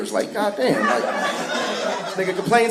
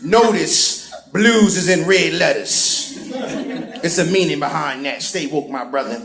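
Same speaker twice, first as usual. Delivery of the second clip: Conspiracy King. Retold or imitated. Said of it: "Mister Conspiracy King".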